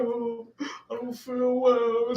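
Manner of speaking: slow, whimpering mock cry. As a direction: imitate her feeble, tearful whine. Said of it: "She wanna start crying now".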